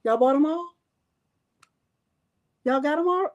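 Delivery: can't believe they sold out; incredulous rising questions; surprised disbelief. Real, not acted. Stunned that items sold out.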